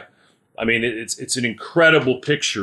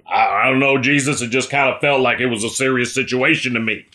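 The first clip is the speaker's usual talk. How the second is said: sheepish disciple; faster than usual. Acted. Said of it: "That's what I would have said".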